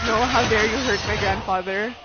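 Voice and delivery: loud, indignant bear voice; mock outraged bear. Bear scolding the player for hurting grandfather, loud mock outrage. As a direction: ham up the bear's outrage. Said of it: "The bear was like".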